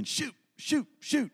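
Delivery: high, exasperated shoot repeated; mock frustrated gamer outburst; frustrated exclamation. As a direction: blurt it out like you just lost the game.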